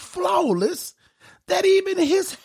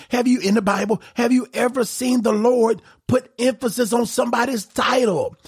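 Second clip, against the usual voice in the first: preaching shout; 3 semitones higher than usual. Real, not acted. Preacher's rhetorical question to congregation.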